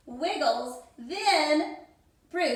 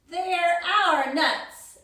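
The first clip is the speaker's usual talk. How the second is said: exclaimed; 3 dB louder, slower than usual. Acted. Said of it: "exclaimed Bruce".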